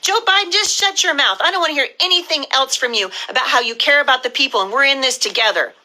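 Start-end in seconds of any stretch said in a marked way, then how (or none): 0.0-3.1 higher, sharp, furious rebuke; angry telling-off. Real, not acted. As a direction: snap at Biden to shut up. Telling off the president.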